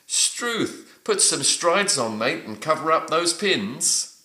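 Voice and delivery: high-pitched surprise, falling at the end; surprised exclamation. Shown as a demonstration. Teacher reading quiz answer D in Aussie slang, mildly surprised. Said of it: "struth is a way of expressing surprise".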